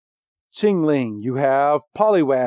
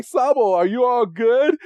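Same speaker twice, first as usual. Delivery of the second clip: higher-pitched concerned call; lightly acted worried question; 7 semitones higher than usual. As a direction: call out to check on a friend, pitched up. Voicing Go checking on Sobble.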